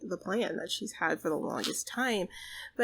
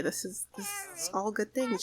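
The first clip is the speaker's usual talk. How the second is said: mock crying. Proud dad voicing emotion.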